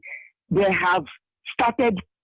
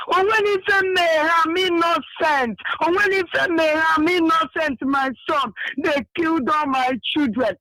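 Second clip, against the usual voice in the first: high, wailing cry of innocence; imitating a grieving mother lamenting; crying plea; 6 semitones higher than usual. Mother lamenting her killed children to the leader, high wailing cry. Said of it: "She's speaking Igbo".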